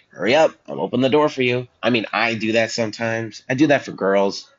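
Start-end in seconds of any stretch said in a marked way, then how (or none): 0.1-1.7 impatient door holder. Retold or imitated. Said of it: "and it's like".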